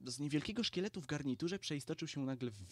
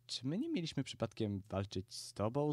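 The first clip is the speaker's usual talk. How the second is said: ordinary delivery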